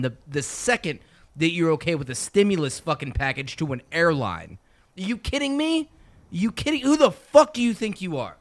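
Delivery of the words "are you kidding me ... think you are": high-pitched incredulous challenge; real exasperated outburst. Real, not acted. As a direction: demand it in heated disbelief. Incredulous outburst during political rant.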